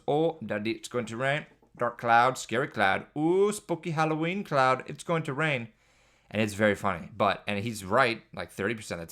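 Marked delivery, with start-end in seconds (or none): 0.1-5.7 put-on high, excited toddler voice, rising to a spooky squeal; imitating toddler son. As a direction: mimic a little kid warning about rain. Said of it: "my son goes".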